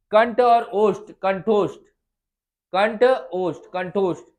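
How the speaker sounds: कंठ और ओष्ठ said slowly, then कंठोष्ठ joined; slow drill. Shown as a demonstration. Teacher to students: slow term drill. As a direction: spell out the parts, then join them. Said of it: "किससे किससे बना बेटा".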